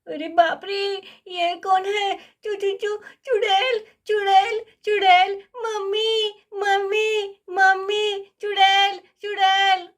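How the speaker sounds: put-on panicked little girl stammering and crying out; terrified child screaming for mummy; scared child. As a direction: stutter in fright, then call for mummy. Child Kiki sees the witch.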